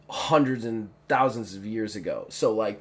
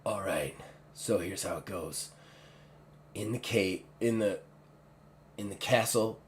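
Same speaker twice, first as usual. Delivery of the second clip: hushed, soft conspirator; whispering on the phone; 3 semitones lower, 7 dB quieter than usual. Acted. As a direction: keep it low so nobody hears. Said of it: "I would keep it in whispers".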